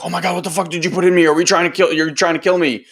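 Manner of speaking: a hint of a panicked body crying out; lightly playing the body, alarmed and rushed; mock panic. Body reacting to a substance.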